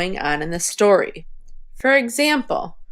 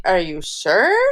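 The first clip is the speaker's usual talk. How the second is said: ARE YOU SURE with a big upward swoop on SURE; like a question; 3 semitones lower than usual. Shown as a demonstration. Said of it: "said it more like a question, like".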